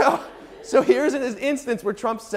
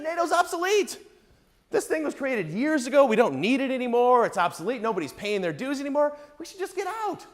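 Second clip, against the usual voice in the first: a lightly voiced Trump, pitched higher and rising to a high end; Trump impression; 5 semitones higher than usual. Imitating Trump dismissing nato to an interviewer, lightly voiced. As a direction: mimic Trump brushing off the alliance. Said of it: "Donald Trump gave an interview and he said".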